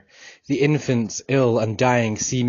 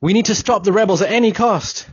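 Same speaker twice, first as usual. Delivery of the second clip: growled retort; 9 semitones higher, 4 dB louder than usual. Acted. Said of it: "With a growl, my friend retorted".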